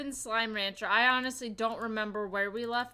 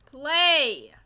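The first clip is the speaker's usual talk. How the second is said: excited shout; 3 semitones higher, 10 dB louder than usual. Real, not acted. Clicking play in game.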